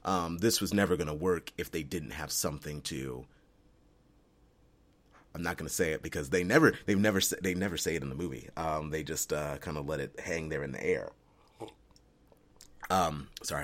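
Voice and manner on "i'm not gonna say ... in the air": talking between sips of coffee; while sipping coffee. Real, not acted. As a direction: speak with a coffee cup at your lips. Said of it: "I'm drinking coffee while I'm doing this".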